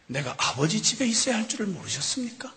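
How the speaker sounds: hushed whisper; Jesus quietly answering his mother; whispered reply. Acted. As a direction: breathe it as a whisper.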